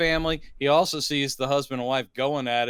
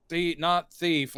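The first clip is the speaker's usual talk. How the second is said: slow denial; slower than usual. Retold or imitated. Retold creature's slow denial.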